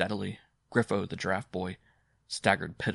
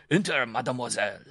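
raised, inviting call; said aloud; 4 semitones higher, 4 dB louder than usual. A narrator's reading. Simon to an unseen admirer, calling out. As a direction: call it toward the door. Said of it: "but aloud he said".

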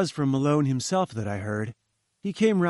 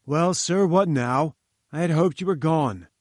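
annoyed; 3 semitones higher, 4 dB louder than usual. Acted. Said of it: "he looked up angrily".

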